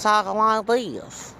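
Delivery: put-on high, drawn-out Anglo woman accent. Mimicking a Latina constable who talks like her white coworker, Anglo accent. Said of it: "talking like an Anglo woman".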